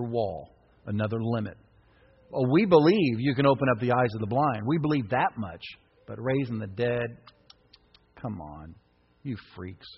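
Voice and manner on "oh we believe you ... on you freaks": scornful mockery. Mocking doubters' voice, fading.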